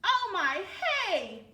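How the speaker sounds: loud, high cry of wonder; amazed gasp. Acted. Cornelius seeing his friends' creations, loud and amazed. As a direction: let the surprise burst out. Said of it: "Cornelius said".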